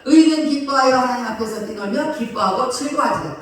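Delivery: loud, emphatic psalm reading; scripture reading. Acted. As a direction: proclaim the verse to the congregation. (설교자가 회중에게 시편을 힘차게 낭독)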